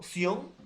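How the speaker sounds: emphatic, drawn-out "sion"; stressed syllable demo. Shown as a demonstration. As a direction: punch out "sion" as the strongest syllable. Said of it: "es la mayor fuerza de voz".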